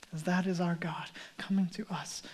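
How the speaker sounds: a hushed, breathless whisper; awed whisper. Real, not acted. Preacher to congregation about God coming near, whispered. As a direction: drop to a whisper as if sharing a secret. Awed aside after the point.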